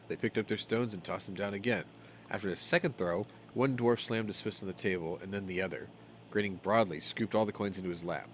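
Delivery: measured storybook reading; game text read as a story; story narration. A narrator's reading. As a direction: read the tale aloud, scene by scene.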